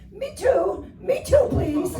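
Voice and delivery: high, loud comic begging; high-pitched mock plea for attention; mock pleading yell. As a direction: call out desperately, hammed-up. Begging at construction site fence.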